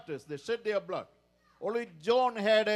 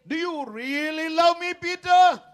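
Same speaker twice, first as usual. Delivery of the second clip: louder, rising to Peter's name; insistent question; 4 semitones higher, 8 dB louder than usual. Acted. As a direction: press the question home. Jesus' third question, climax.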